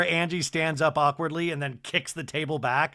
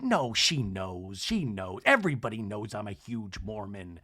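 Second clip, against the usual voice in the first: low mock drone; 7 semitones lower, 5 dB quieter than usual. Brittany voiced dismissively.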